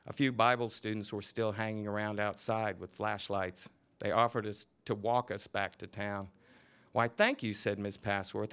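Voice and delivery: lively novel reading, voicing each character; story reading. A narrator's reading. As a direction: read the scene aloud with relish. Author reads novel scene aloud.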